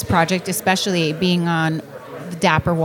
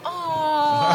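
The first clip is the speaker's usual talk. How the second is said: cooing aw; 6 semitones higher, 4 dB quieter than usual. Retold or imitated. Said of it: "three ladies go".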